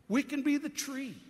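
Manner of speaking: We can be the tree, punched high and loud on be; emphatic repeat. Real, not acted. Preacher repeats phrase emphatically.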